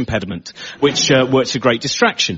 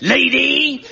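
put-on toddler shout; 12 semitones higher than usual. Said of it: "he went".

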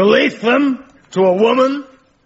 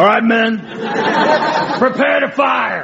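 shouted military command, pitched up; firing-squad order. Acted. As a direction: call the squad to readiness.

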